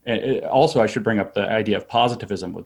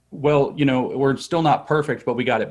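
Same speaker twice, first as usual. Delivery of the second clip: humble admission voice; 4 semitones higher than usual. Retold or imitated. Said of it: "this kind of an admission".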